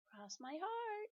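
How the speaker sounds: high, slow earnest vow; pigtail voice. Acted. Pigtail swearing to Paul, high and slow. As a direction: swear it with exaggerated innocence.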